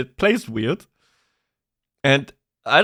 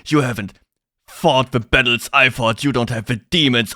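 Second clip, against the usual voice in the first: put-on edgy teen villain voice; 4 semitones lower than usual. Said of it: "He sounded like some edgy teenage boy".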